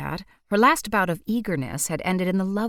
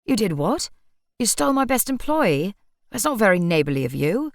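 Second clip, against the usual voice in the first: mild indignation; 3 semitones higher, 4 dB louder than usual. Acted. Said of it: "looking furious".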